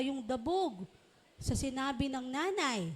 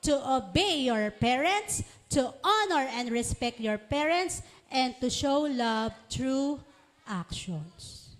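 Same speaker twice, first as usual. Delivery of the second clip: group recitation. Shown as a demonstration. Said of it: "One, two, three, go".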